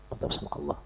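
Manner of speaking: "Mantap sama Allah" breathed out unvoiced, soft; soft whispered "Mantap sama Allah"; whispered echo. Shown as a demonstration. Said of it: "repeats phrase softly".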